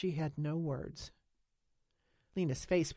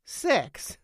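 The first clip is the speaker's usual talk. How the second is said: higher, louder, stunned echo; repeating in shock; 8 semitones higher, 9 dB louder than usual. A narrator's reading. Nance echoes Lena's word, stunned and loud. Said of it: "Nance repeated".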